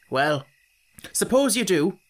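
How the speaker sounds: mild hearty agreement; a touch of bluff heartiness. Acted. Pharaoh letting the children go, mildly hearty. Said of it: "said Pharaoh heartily".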